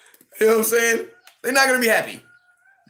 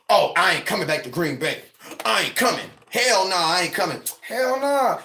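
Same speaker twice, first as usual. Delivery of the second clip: mock big talk. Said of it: "talking that big talk".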